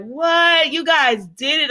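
high, hammed-up astonishment; overacted surprise. Boy hearing his parents got engaged, overacted surprise. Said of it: "Overacting much".

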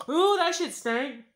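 loud, high, drawn-out "ooh" of disgust; real disgust. Real, not acted. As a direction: recoil from the smell out loud. Reacting to her own fart.

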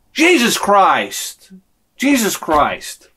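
drawn-out, heavy exclamation; slow dismay. Retold or imitated. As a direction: let each word drag in grief. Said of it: "I'm like".

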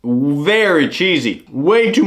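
talking between bites; chewing while talking. Real, not acted. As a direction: mouth partly full. Seen 1: Ate a roll at -5/-4; jaw chewing while tasting early on.

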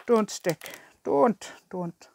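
lightly put-on Irish accent. Shown as a demonstration. Crafter practising an accent for viewers, light Irish accent. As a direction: try out an Irish "don't". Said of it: "That's, that's Irish".

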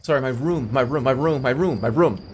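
"room" with a short vowel and held m; low, insistent "my room" on a loop; disputed ROOM. Shown as a demonstration. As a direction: repeat "my room", leaning on "room". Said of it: "why does he say room".

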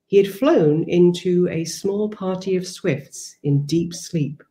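measured, unhurried reading of her own essay prose; reading aloud. Acted. Author reading her essay to the interviewer, measured and calm.

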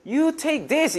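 "You take this." slow, pitched high, with a big rise on "take"; intonation shows annoyance. Shown as a demonstration. Teacher shows English carrying annoyance by tone, high rising. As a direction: lean on "take" and swing the tune way up. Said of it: "억양으로 이거를 해결을 합니다".

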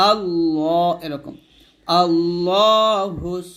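আল্লাহ with a thick, dark ল; আল্লাহ with emphatic dark l; heavy lam. Shown as a demonstration. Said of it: "লামটা অবশ্যই মোটা করবেন".

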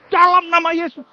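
high, forceful healing command; re-enacted emphatic prayer. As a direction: pray it out like a command. Retells his commanding healing prayer.

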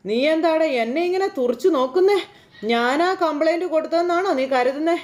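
imitating the mother-in-law bristling; indignant retort. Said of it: "Chandramathi അന്നേരം".

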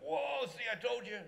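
gasp, then gloat; amazed crowd. Retold or imitated. Crowd seeing the blind man healed, amazed and gloating.

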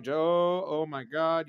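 mock "oh my God" outrage; shocked viewer. Viewer's shocked reaction, imagined.

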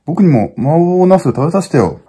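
put-on high childlike pleading voice; a boy begging his big brother to share; begging kid brother. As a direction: whine sweetly for a taste of the food. Skit, little brother begs food.

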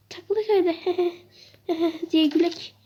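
chuckling tease; laughing. Real, not acted. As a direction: laugh it off with the viewers. Joking with viewers.

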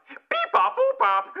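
high beeping robot. Acted. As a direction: beep it out like a robot. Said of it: "I'm you, get it?".

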